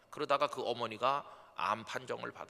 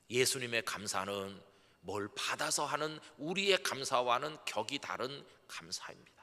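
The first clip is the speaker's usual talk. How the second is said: ordinary talk, nothing marked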